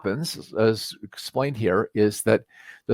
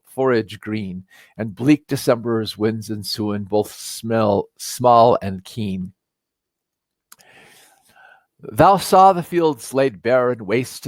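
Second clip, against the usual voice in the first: dwelling on each line of verse; poem recital. Acted. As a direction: read it like a cherished poem, unhurried.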